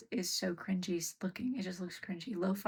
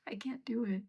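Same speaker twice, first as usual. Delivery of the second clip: whisper; 3 semitones higher than usual. Real, not acted. Pet climbing on her.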